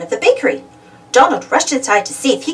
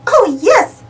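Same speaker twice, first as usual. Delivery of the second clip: higher squeak, a little louder; squeaky; 10 semitones higher, 4 dB louder than usual. A narrator's reading. Minnie answering Daisy about Donald's gift, squeaky. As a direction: squeak it out with delight. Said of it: "Minnie squeaked".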